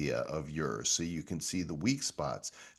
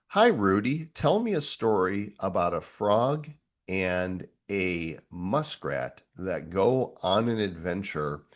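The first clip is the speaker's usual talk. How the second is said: excited; 4 dB louder than usual. Real, not acted. Talking to kids' AI storyteller.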